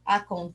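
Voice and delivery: TE in "Acontece" held very long; stress on TE. Shown as a demonstration. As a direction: stretch out the TE of "Acontece". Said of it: "Quem que é forte?".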